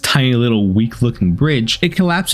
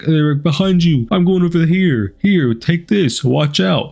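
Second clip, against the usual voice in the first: mock bossy AI companion; 5 semitones higher than usual.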